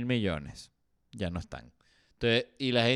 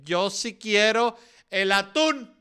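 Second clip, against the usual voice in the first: higher, slow, drawn-out whiny demand; mock stubborn tuna eater; 8 semitones higher, 3 dB louder, slower than usual. A selfish person refusing to give up tuna, slow whiny demand. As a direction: whine it like a spoiled kid who won't give up tuna. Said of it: "Va a haber gente que".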